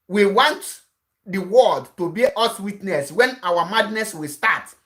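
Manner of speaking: normal talking voice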